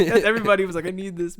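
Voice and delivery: laughing. Real, not acted. Laughing while retelling the reaction.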